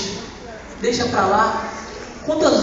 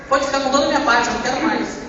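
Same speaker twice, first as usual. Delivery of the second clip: fast, desperate pleading with "toda" stressed and falling; desperate rush; 5 semitones higher, faster than usual. Retold or imitated. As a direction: rush "Pode ficar com toda a minha parte" out, pleading. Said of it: "Olha como eu tava desesperado".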